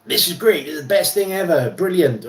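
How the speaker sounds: lighter gushing fake American accent; mock American reviewer. Mocking reviewers who call everything great, light American accent. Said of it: "I'm using an American voice".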